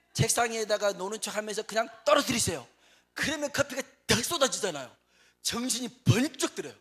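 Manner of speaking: 높고 크게 신나서; 번쩍 깨는 순간처럼 외쳐요; excited. Acted. Joke climax, excited loud. (신나게 외치듯)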